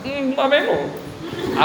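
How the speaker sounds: slow, breaking, holding back tears; choked-up voice. Retold or imitated. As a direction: let the voice crack, slowly. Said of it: "A voz já deu uma". (voz embargada, segurando o choro)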